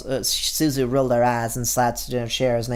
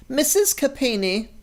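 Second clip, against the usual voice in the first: higher, slow teacher's call; 11 semitones higher, slower than usual. Acted. Teacher calling on Suzu in class, slow and high. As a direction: call the student's name like a teacher.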